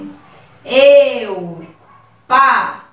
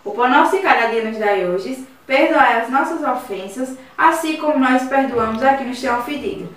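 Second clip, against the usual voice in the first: prayer. Acted. Teacher leading third graders in the Our Father, reverent. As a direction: lead the class prayer gently and evenly.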